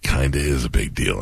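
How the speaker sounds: low, lightly voiced wrestler; a hint of a let-down wrestler; Randy Savage. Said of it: "I love talking as Randy".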